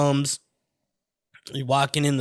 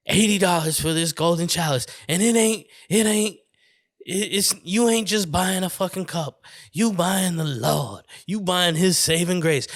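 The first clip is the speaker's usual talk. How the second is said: higher, emphatic Southern preacher pitch; Southern televangelist; 4 semitones higher than usual. Acted. Preacher selling entrance to heaven, mock Southern televangelist. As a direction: preach the sale, stumbling as you build. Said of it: "coulda done that character".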